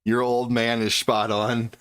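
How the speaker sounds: slow, lightly voiced old man reading chat. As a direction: read it like a slow old sage. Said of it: "Deckard Cain sucking helium".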